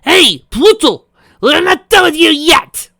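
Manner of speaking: loud, high, slow taunting shout. Acted. Rainbow taunting their captor, loud high shout. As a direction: yell across the room to draw him. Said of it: "turning to shouting".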